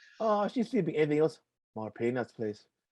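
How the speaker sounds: terrible, goofy, horrible put-on Irish accent. Imitating a movie character whose portrayal you loved, in a horrible irish accent. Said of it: "That's a horrible Irish accent".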